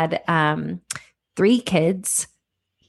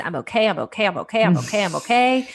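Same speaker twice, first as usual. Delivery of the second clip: insisting; 3 semitones higher, faster than usual. Retold or imitated. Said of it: "And I'm like".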